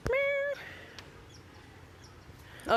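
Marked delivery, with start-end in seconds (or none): 0.1-0.6 high meow. Real, not acted. Meowing at a cat.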